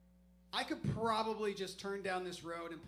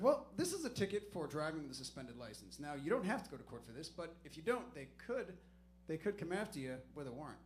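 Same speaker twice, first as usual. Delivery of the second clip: patient cop; 3 semitones lower than usual. Retold or imitated. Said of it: "He's like".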